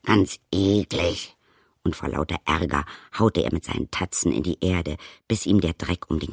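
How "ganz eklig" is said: slow, grumbly bear voice; grumbling bear. Acted. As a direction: drag it out like a sulky bear. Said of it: "brummelte der Bärbeiß".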